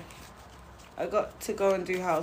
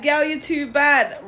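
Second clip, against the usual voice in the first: flirting man; 5 semitones higher, 5 dB louder, slower than usual. Retold or imitated. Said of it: "a man trying to flirt with you".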